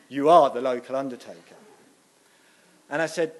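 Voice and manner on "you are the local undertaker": louder, leaning on "are"; insistent. Retold or imitated. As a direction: stress "are" as if settling the matter. Lady insists on her guess.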